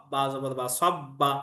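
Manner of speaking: সব্বা said slowly with the ব doubled; doubled consonant. Shown as a demonstration. Teacher demonstrating tashdid on সব্বা, slow and doubled. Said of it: "তাসদিদ ওয়ালা হরফ দুইবার পড়তে হয়".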